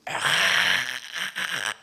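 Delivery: loud sharp angry cry "ah"; father's yell. Retold or imitated. Dying father shouting at his son, loud angry cry. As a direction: bark out a furious cry. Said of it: "소리를 지르면서요".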